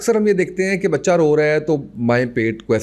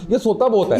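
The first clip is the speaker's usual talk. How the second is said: high, fretful complaint of a new parent; worried parent; 8 semitones higher than usual. Retold or imitated. A host imitates a worried parent rushing to the doctor, fretful and high. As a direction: voice the anxious parent, pitched well up.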